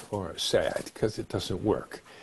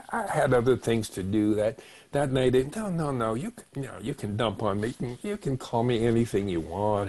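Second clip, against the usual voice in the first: denial. Acted. Hurt person excusing the one who wronged them, denial. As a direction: brush every hurt off as nothing. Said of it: "the third error in communication is denial".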